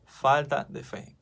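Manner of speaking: "Falta de fe" slowed right down, each word weighed; slow emphatic repeat. Shown as a demonstration. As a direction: drive it home slowly, word by word. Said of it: "Hombres de poca fe".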